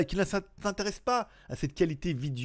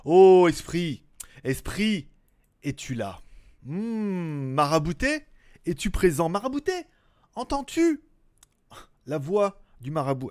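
seance medium. Acted. Calling the spirit as marabout.

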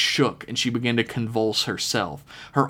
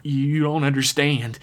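a touch of panic, slightly raised; mild panicked plea; 5 semitones higher than usual. Acted. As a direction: plead without going all the way. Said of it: "the man screamed back, panic in his voice".

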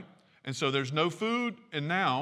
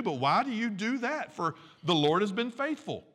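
higher, pleading exasperation at the crowd; exasperated Moses; 5 semitones higher than usual. Retold or imitated. Moses asks the quarreling people why they blame him, higher and exasperated. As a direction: Moses throwing up his hands, higher. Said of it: "Moses saying".

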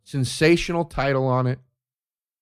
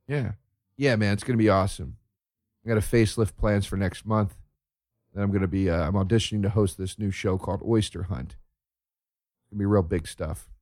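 mock dim YouTuber; 4 semitones lower, 5 dB quieter than usual.

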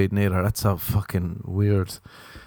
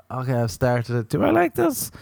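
inner doubt; 2 semitones higher than usual. Retold or imitated. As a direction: ask yourself, unsure. Self-doubting reader's inner voice.

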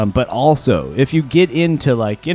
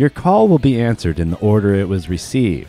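phone menu voice; 3 semitones lower than usual. Retold or imitated. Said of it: "that's on the automated, uh, customer service thing".

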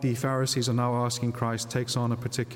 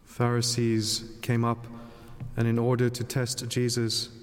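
Gospel reading. Acted. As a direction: read scripture aloud at Mass.

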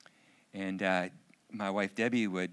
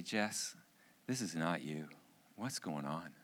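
tag; 4 semitones lower, 5 dB quieter than usual. Retold or imitated. Father gently confronts sullen daughter.

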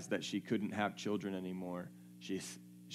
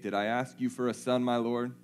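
mad mother; 4 semitones higher, 4 dB louder than usual. Retold or imitated. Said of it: "She's mad".

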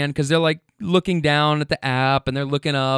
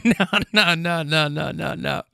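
acted reassurance. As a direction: wave off the alarm, trailing away. Reassuring the startled man, retold.

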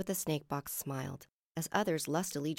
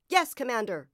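raised, loud acknowledgement; dutiful shout; 7 semitones higher, 7 dB louder than usual. A narrator's reading. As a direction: answer the commander smartly. Guard answering commander's order.

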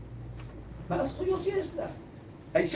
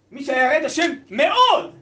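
emphatic shout; 5 dB louder than usual. Real, not acted. Teacher stresses how God-fearing.

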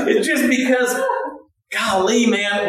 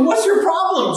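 mock annoyed; 9 semitones higher than usual. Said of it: "'Cause you go".

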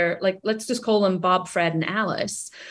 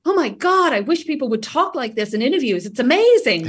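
much higher, gushing delight at a new idea; gushing excitement; 5 semitones higher than usual. Retold or imitated. Company leaders gushing over candidates who talk this way, excited. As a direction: squeal it like a thrilled hiring manager. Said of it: "they get very excited about it".

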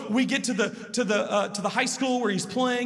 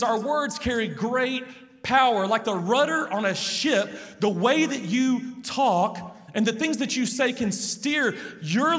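scripture paraphrase; slower than usual. Acted. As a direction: proclaim the verse with weight. Reads James' teaching aloud.

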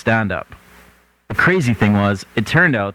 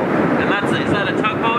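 incredulous; 11 semitones higher than usual. Real, not acted. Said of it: "his comments peppered by an incredulous tone".

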